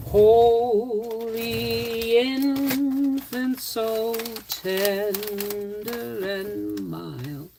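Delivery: running short of breath while singing; catching breath midword. Real, not acted. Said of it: "Sorry, lost my breath".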